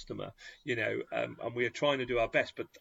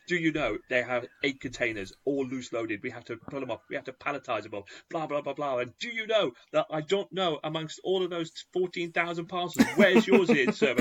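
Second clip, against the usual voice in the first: retold exasperated rant, rising higher and louder; letting him have it; 4 semitones higher, 5 dB louder than usual. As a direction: rant back at the customer, building to a loud challenge. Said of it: "I just let him have it".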